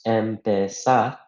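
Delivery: empezar said slowly, each syllable apart; syllables drawn out. Shown as a demonstration. Teacher breaking a verb into syllables, slow and deliberate. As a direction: stretch empezar out syllable by syllable for the class. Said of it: "if we were to break it up into syllables".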